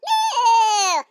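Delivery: long loud cow moo. Acted. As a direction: let out a big drawn-out moo. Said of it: "What does a cow do?".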